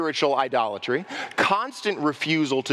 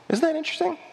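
mock amazement; much faster than usual. Preacher repeats his question ironically.

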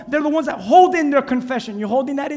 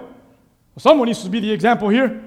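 sheepish reply; 4 semitones lower than usual. Retold or imitated. Friend's sheepish reply, voiced.

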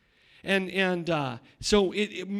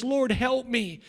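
crying out; 4 semitones higher, slower than usual. Acted. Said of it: "be like Bartimaeus".

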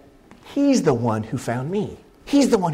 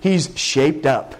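mock church gossip. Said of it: "we talk like this".

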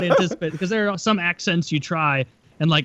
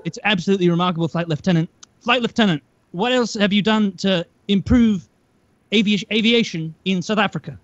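mock South African reporter, measured pauses; South African accent; 3 semitones higher than usual. Reporter praising the flight lieutenant's aviation work, in South African accent. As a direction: imitate an indulgent South African interviewer. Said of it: "he had, like, the South African accent".

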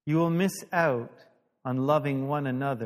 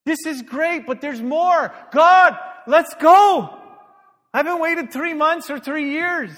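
high, full-voiced urging; all excited; 13 semitones higher, 13 dB louder than usual. Pastor retelling his plea to God, loud and excited. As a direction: push it out loud and impatient. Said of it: "I'm getting all excited".

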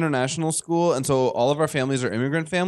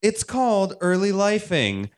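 calming news voice; 3 semitones higher than usual. Pretend. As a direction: lull them like a feature story. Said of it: "In my calming news voice?".

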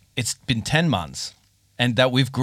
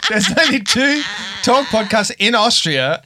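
laughing; 11 semitones higher than usual. Real, not acted. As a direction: laugh while poking fun. Teasing, incredulous laugh.

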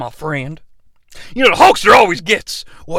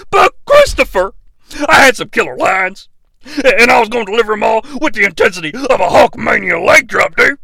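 Hulk Hogan; 4 semitones higher than usual. Acted. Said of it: "Hulk Hogan".

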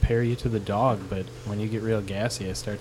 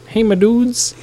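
loud, high-pitched mimicry; imitated intro greeting; 11 semitones higher, 13 dB louder, slower than usual. Host pretending to be Teddy's intro, mimicked high and loud. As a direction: send up an intro catchphrase, pitched way up. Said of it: "that could have been".

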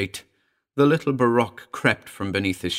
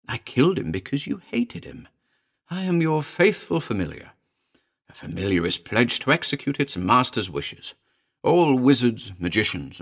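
sly little familiar; 4 semitones higher than usual. Acted. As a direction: coax your master, high and insistent at first, then settling. The familiar addresses its master.

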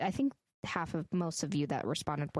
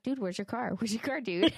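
movie quote voice; 5 semitones higher than usual. Pretend. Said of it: "I meant to start it off like".

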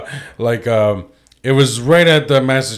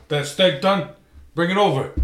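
higher-pitched movie tough guy impatient for his steak; raised pitch, held-back demand; Jake LaMotta; 6 semitones higher than usual. Acted. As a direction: start the bossy New York husband at normal volume. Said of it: "Jake LaMotta, when he's just like".

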